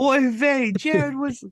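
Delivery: Jewish grandmother voice. Acted. Jewish grandmother reference bit.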